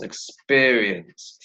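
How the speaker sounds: "Experience" slowly drawn out in syllables; "Experience" very slow, falling at the end. Shown as a demonstration. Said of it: "How many syllables?".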